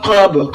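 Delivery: कब with the काफ bounced out in qalqala; qalqala on kaf. Shown as a demonstration. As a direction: give कब a small echoing bounce on the काफ. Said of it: "काफ को कलकला करते हुए पढ़े".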